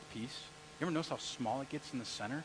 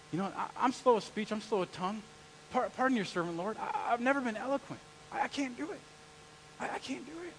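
rising, pleading stammer getting higher; hint of a whiny Moses climbing higher; 6 semitones higher than usual. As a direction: beg off like a frightened Moses, voice climbing. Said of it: "And Moses says".

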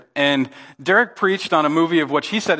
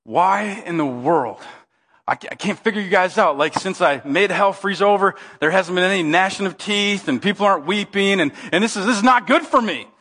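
higher-pitched, exasperated complaint; frustrated devil; 4 semitones higher than usual. Acted. Devil can't figure out Sven and Oli, frustrated. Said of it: "And the devil's just frustrated".

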